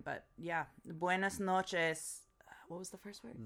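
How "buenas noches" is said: slow whispered Buenas noches, each syllable careful; Spanish practice. Shown as a demonstration. Learner practicing Spanish greeting, slow and whispered. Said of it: "we're assuming it's nighttime".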